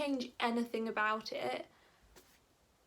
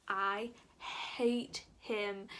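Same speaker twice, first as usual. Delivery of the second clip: slow drawn out; much slower than usual. Shown as a demonstration.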